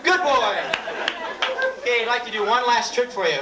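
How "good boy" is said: praising a pet. Acted.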